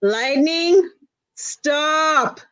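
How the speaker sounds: a touch firmer, stretching out the "stop". A narrator's reading. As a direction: raise the pitch a little to tell off a child. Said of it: "raise her voice just a little more".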